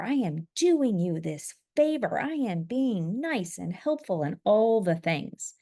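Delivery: indignant, emphatic rant at a son; retold rage. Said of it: "like, utter rage. Like, utter rage".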